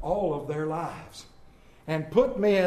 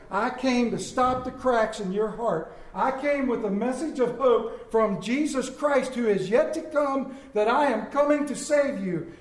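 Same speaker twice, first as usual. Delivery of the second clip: rising preaching; 3 semitones higher than usual. Acted. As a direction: preach it to the rafters. Preaching Isaiah's promise at force.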